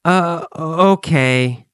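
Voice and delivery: slow drawn-out uh before okay; stall, then reluctantly agree; hesitant. Acted. Kathy unsettled answers Gabriel, hesitantly.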